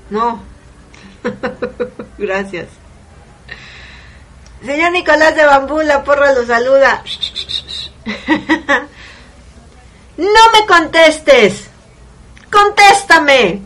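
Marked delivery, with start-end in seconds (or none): 4.7-7.0 upbeat shout-out to a caller; cheery greeting. Real, not acted. 10.2-13.6 high, slow, loud scolding; exasperated grandma scolding. Retold or imitated. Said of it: "Es típico. Te están regañando".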